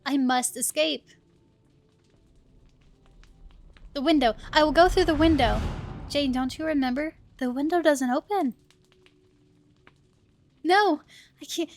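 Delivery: lightly acted alarmed heroine; lightly voiced trapped heroine. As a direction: play the trapped girl, half-panicked. Voices Jane, trapped in the carriage.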